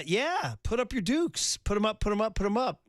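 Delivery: a hint of an old cartoon tough; lightly voiced cartoon challenger; vintage cartoon voice. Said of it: "said the old cartoon guy".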